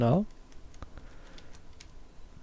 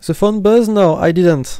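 startled surprise; 5 semitones higher, 8 dB louder than usual. Real, not acted. Sudden realization about phone.

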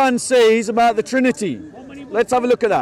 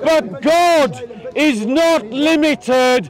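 street preaching; much slower than usual. Real, not acted. Preaches over interjections.

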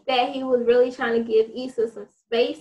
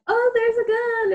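quoted character; 9 semitones higher than usual. Retold or imitated. Quoting a character.

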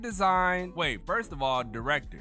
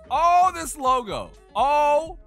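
excited shout; 12 semitones higher, 10 dB louder, slower than usual. Real, not acted. Excited about logo.

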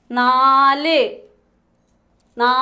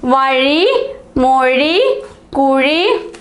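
each word read out clearly with a rise; read-back; much slower than usual. Shown as a demonstration. Teacher checking the dictated words with the class, clearly. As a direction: list the words back one by one. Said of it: "എന്തെല്ലാമാണ് എഴുതിയത്".

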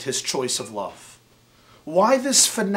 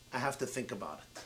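much softer, quick mumbled retreat; quiet concession; 8 semitones lower, 16 dB quieter, faster than usual. Retold or imitated. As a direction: let the fight drain out of her.

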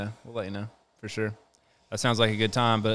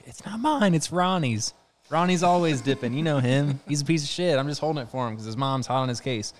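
put-on teen excuse to mom; 4 semitones higher than usual. Teen lying to mom about dip.

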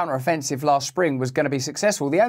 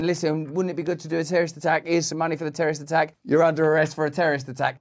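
fast, hushed conspiratorial agent; mock FBI agent; faster than usual. FBI agent setting someone up for a terror plot, fast and hushed. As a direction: rattle it off like a shady fed. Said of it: "the F B I getting people together going".

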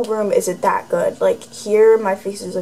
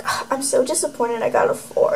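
mock disappointed whine; 3 semitones higher, 4 dB quieter than usual. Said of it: "she's like".

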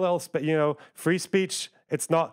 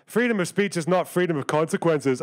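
mock parroting; 4 semitones higher than usual. Parroting a cliché.

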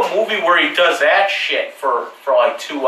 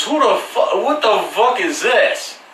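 mock thug shout; 6 semitones higher than usual. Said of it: "he says".

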